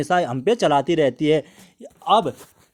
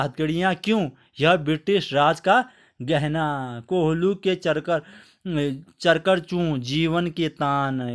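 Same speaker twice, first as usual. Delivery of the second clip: poem recitation. Acted. (धीमे, गंभीर कविता पाठ)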